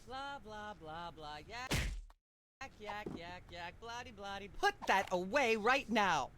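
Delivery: "yak, yak" muttered, faded right down; droning on, faded. Pretend. Host drones on while others talk.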